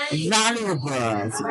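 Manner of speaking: valuables stretched out, VA first; slow prompting model. Shown as a demonstration. Teacher hints at the word to students, slow. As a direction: draw out valuables as a hint. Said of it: "It starts with va".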